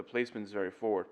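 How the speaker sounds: congested voice demonstrated up front; sick voice demo. Shown as a demonstration. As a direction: push the sound into the front of the face like a head cold. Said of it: "If I talk like I'm sick".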